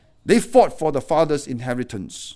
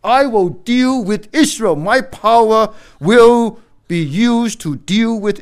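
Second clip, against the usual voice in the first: voice of God; 6 semitones higher, 7 dB louder, slower than usual. Acted. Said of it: "Just to tell Israel".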